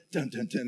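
imitated "dun dun dun" suspense sting; suspense music sting. Pastor imitating the background music as each sack opens, mock suspense sting. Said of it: "in the background you'd hear".

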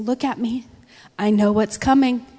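steady them tenderly; affectionate reassurance. Acted. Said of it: "what Jesus is doing here in his affection".

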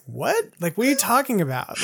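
puzzled disbelief. Retold or imitated. Retold puzzled reaction to news.

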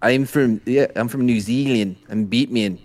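New Zealand accent shown off as Australian; lightly demonstrated New Zealand accent; Kiwi accent. Shown as a demonstration. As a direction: give a demo of a Kiwi accent. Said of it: "show him a good Australian accent".

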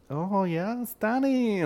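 put-on high, goofy drunk voice; mock drunk guy.

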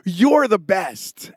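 slow, drawn-out grateful thanks; wife thanking her husband slowly; sweet thanks. Retold or imitated. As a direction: gush your thanks slowly to him. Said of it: "And she's like".

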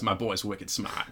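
slow imitated Boston accent; movie-quote Boston accent. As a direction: draw out the line with a Boston accent. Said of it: "he says it in such a Boston accent".

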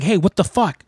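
high, indignant mock confrontation; retold fake indignation at a stranger; mock outrage. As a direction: act out the fake fury at her. Confronting the mousy lady.

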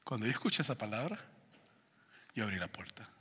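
whispered; hushed storytelling. A narrator's reading. Preacher whispers as he tells of opening the door. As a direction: whisper it to the congregation.

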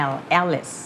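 "Alice" starting as the letter L, stressed first; Alice begins like L. Shown as a demonstration. Teacher corrects student, "Alice" opened like letter L and falling. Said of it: "เหมือนชื่อ L อะ".

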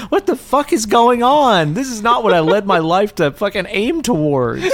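high-pitched mock outrage; hammed-up high, aggrieved protest; indignant victim. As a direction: wail in comic disbelief at a pointless death. Acting the baffled dying victim.

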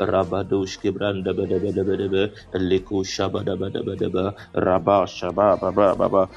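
fast flowing glossolalia prayer; speaking in tongues. Real, not acted. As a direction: rattle off tongues syllables, quickening.

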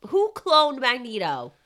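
high-pitched, rising barrage of disbelief; exasperated, incredulous outburst; baffled questioning. Real, not acted.

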